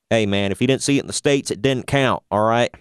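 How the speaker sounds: put-on lightly done Southern hick accent, a bit quick. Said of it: "I did a hick accent for that".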